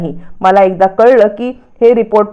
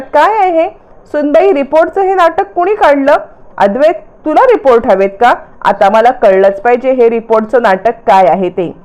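high, sharp demand from the head of the house; stern old man snapping at the family; angry grandfather; 4 semitones higher than usual. Acted. Grandfather confronts family over reports. (रागावलेले आजोबा, चढा आवाज)

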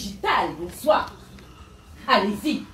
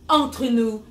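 grand self-help sermon; guru preaching; 2 semitones higher than usual. Acted. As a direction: preach it to the followers.

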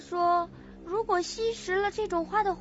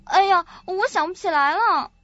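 louder, exasperated at a blank memory; frustrated outburst; 2 semitones higher, 6 dB louder than usual. Acted. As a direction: let the effort burst out in frustration. Frustrated at failing to remember.

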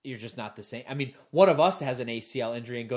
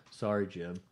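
low, soft deadpan apology; imitating an unbothered monotone athlete; monotone Bosa voice; 6 semitones lower, 6 dB quieter than usual. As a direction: drop it low with no feeling at all. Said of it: "Just that monotone Bosa voice".

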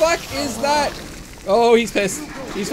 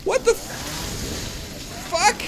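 slow breathy disbelief; 9 semitones higher, much slower than usual. Real, not acted. Stunned by the boss.

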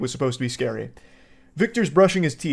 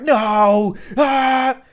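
mock demon cry; 8 semitones higher, 5 dB louder than usual. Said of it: "It's like".

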